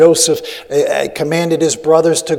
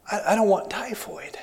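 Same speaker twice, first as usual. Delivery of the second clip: soft, higher little protest; reluctant mock plea; 4 semitones higher, 11 dB quieter than usual. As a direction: say it small and reluctant, much softer. Retold reaction to typhoid, small voice.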